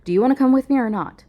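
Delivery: wife pressing her husband to choose, impatiently. Acted. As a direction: hurry him up, impatient. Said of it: "I say impatiently".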